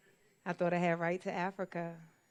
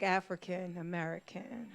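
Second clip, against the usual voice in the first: gentrifier swagger; 5 dB quieter than usual. Retold or imitated. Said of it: "like I was gonna gentrify Japan".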